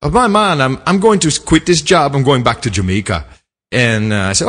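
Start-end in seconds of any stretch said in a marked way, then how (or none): 0.0-3.2 Jamaican driver. Retold or imitated. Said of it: "I won't do the accent".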